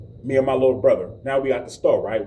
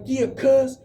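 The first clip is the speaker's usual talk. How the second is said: menacing taunt; 10 semitones higher than usual. Retold or imitated. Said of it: "he was like".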